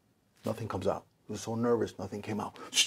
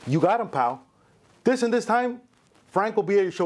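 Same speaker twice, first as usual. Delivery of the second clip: Jackie Gleason voice; 6 semitones higher than usual. Retold or imitated. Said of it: "He goes".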